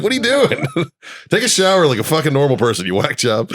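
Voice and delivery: high, laughing scold; laughing disbelief. Retold or imitated. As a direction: scold him through laughter. Dad catching son in tub.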